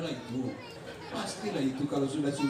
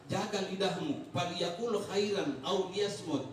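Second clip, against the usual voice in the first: slow recited hadith; slower than usual. Retold or imitated. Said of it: "Nabi empat belas abad yang lalu ngajarkan kita".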